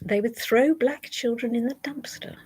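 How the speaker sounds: whisper. Real, not acted. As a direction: breathe it out in disbelief. Reading an awful claim.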